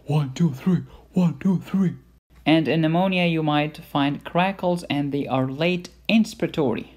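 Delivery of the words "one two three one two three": the count said aloud, clear and louder. Shown as a demonstration. Lecturer showing the whisper heard loud and clear. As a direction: voice the count as heard through the stethoscope. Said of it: "you hear it very loud and clear".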